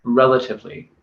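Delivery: "relatively" carefully emphasized on its own; stress on relatively. Real, not acted. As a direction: set "relatively" apart after a pause and stress it. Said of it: "I really want to stress the word".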